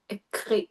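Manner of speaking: soft French "Écrit" with a French r; French pronunciation. Retold or imitated. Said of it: "I like when French people go".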